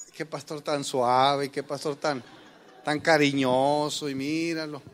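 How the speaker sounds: mock effeminate gossip. Church gossip mocking a gentle pastor, in a slow sneer. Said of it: "me vieran a mí todo amanerado".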